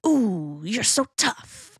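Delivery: high, slow teasing coo; playful dog praise. Shown as a demonstration. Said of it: "I'll say actual words like".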